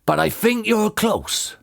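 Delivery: slow, high character call; shouted. A narrator's reading. Boggis guides Bean at the digging, shouting. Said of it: "shouted Boggis".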